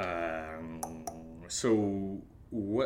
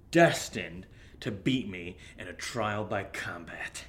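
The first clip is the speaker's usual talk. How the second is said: whisper. Acted. Dramatic whispered prophecy to friend.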